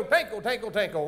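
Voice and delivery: light rhythmic rain patter; rain sound imitation. Shown as a demonstration. Host showing audience the rain part, rhythmic patter. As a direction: patter the words like falling drops. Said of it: "you go".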